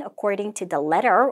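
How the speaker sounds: "letter" lifted at the end; rising intonation. Shown as a demonstration. Teacher models the template for students, rising intonation. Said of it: "intonation ... 올려주시고요".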